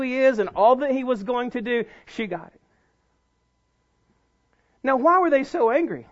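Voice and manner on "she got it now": ordinary talk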